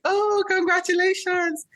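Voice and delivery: high-pitched, gushing well-wisher; excited congratulations. Retold or imitated. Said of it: "Everybody's like".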